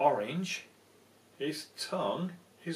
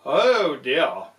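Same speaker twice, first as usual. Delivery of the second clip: alarmed owl; 10 dB louder than usual. Acted. Frightened owl voiced.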